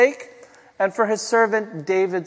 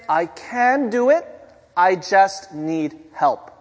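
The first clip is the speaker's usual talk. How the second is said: coaching mom; slower than usual. Retold or imitated. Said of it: "You say".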